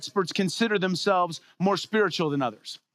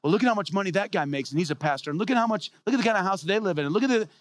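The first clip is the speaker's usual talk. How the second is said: mocking critic; 3 semitones higher, faster than usual.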